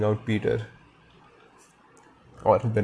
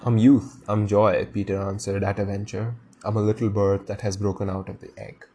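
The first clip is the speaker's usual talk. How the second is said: a touch more weight and feeling; with more depth. Shown as a demonstration. Reader rereading Peter's answer with more depth. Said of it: "with a little more depth".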